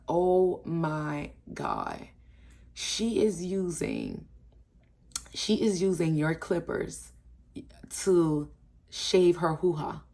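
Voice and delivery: very slow, drawn-out retold disbelief; slow mock-scandalized announcement; dramatic reveal. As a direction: spin out the shocking news with long pauses. Acted shocked reveal to friends.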